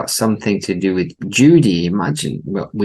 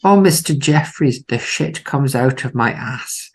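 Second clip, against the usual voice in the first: a hint of an anguished rock singer, higher; overly dramatic rock-star voice; 6 semitones higher than usual. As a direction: ham up the anguished groan. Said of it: "overly dramatic way".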